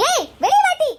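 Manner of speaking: high, challenging yell; calling out. Acted. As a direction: call her out of the house. Calling old woman out of house.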